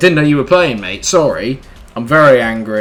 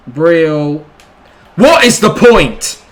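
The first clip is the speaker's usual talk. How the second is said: much higher, loud, slow cry; despairing outburst; 5 semitones higher, 6 dB louder, much slower than usual. Real, not acted. Gamer despairing at his team, high slow wail. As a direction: wail it at the screen.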